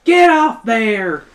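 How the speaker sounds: loud, high, drawn-out yell; screaming mom. A narrator's reading. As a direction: scream it like a mom shooing a pest, stretching the words. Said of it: "Your mom screams".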